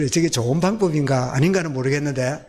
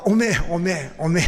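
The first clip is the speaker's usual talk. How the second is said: repeated Honam "오메, 오메, 오메"; 전라도 사투리로 "오메, 오메"; Honam dialect. Shown as a demonstration. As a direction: exclaim in Jeolla dialect. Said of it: "우리 호남 지역 사람 뭐라고요".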